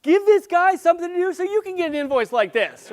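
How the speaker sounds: loud, high, hammed-up urging; enthusiastic urging. Client urging colleagues to hire the speaker, acted loud and excited. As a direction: imitate a thrilled client egging colleagues on.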